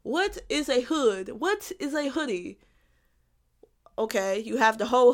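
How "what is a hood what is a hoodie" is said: slowed, deliberate philosophical musing; mock-philosophical. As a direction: pose it like a grand question, playfully. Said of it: "a philosophical question".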